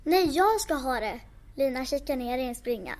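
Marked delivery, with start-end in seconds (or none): 0.0-1.2 put-on child reads the trolls louder and higher; shouting over each other about a prize; squabbling trolls shouting. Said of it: "Det hörs skrik under golvet".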